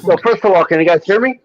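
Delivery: crackly radio transmission sound; like talking through a CB radio; over cb radio. Real, not acted. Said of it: "you sound like you're on a C B radio".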